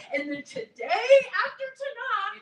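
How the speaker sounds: upset friend starting to break down; near tears. Acted. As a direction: voice cracking, on the edge of crying.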